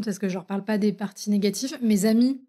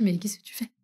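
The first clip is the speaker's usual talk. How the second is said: whispered, disbelieving question; stunned whisper; 6 dB quieter than usual. Retold or imitated. She finds her partner packing, whispered shock. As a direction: breathe it out in shock. Finding him packing his bags.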